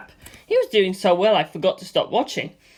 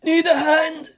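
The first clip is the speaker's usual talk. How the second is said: higher, easy offer of help with a laugh; light male character voice; 10 semitones higher, slower than usual. A narrator's reading. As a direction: toss the offer over casually, laughing.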